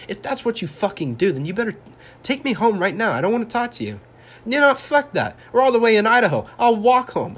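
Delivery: angry confrontation. Pretend. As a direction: blow up at her, voice climbing high. Imagined confrontation with girlfriend.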